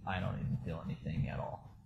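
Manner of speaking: a real whisper, voice gone. Real, not acted. Telling the camera he felt nothing, whispered. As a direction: breathe it out unvoiced, emptied. Describing numbness on the date.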